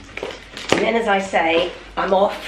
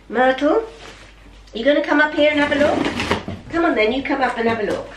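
quick, lightly raised pet-talk; coaxing the dog; 3 semitones higher, faster than usual. Real, not acted. Owner coaxing her dog Myrtle over, quick pet talk. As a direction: chatter fast to coax the dog up.

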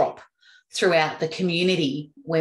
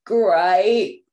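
flat unexcited great; 4 dB louder than usual. Shown as a demonstration. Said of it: "Do you think you'd say".

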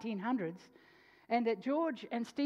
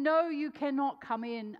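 firm refusal; 4 semitones higher, 6 dB louder than usual. Retold or imitated. Woman refusing, retold again.

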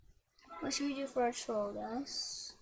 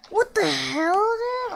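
loud, high cry of disbelief; startled outburst; 9 semitones higher, 15 dB louder, much slower than usual. Real, not acted. Gamer to himself when the game surprises him, startled outburst. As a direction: shout it in shock, pitch jumping up.

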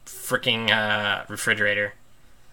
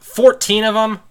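high, loud, slow disbelief; real exasperated shock; incredulous; 12 semitones higher, 10 dB louder, slower than usual. Real, not acted. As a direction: stretch it out in horror. Disbelief at count.

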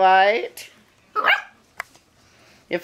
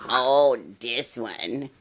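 drawn-out oh; 6 semitones lower, much slower than usual. Real, not acted. Spotting puppy behind bed.

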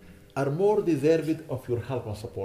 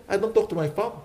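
quoting a congregant; 5 semitones higher than usual. Retold or imitated. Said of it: "people who come to me and say".

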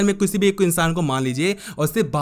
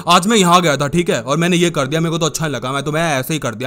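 imitating a touch of anger, pitched a little down; mock grumpy talker; 3 semitones lower than usual. Coach imitates people who get angry too much, mildly irritated. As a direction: act like someone easily annoyed. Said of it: "कुछ लोग गुस्सा ज्यादा होते हैं".

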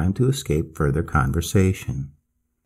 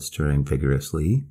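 usual speaking voice

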